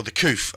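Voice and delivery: "coof" said as koof, a jokey twist on covid; "the coof" with a knowing lilt; jokey nickname. Real, not acted. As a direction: give "coof" a smug little spin. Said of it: "as I like to call it".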